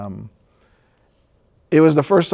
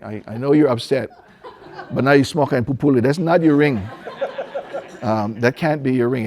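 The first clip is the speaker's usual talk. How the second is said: chuckling through the words; laughing disbelief. Retold or imitated. Husband teases his wife about the ring, laughing. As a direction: laugh it off gently.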